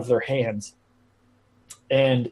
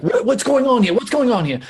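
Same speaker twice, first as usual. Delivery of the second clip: higher-pitched demanding guard voice; guard intervening; 9 semitones higher than usual. Acted. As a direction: demand answers as a guard breaking up a fight. Game master voices the guard.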